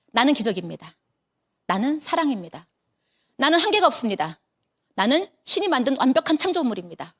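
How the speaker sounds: spoken affirmations, quieting to a hush on the thanks; morning affirmation recital. Shown as a demonstration. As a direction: recite each line like a mirror mantra.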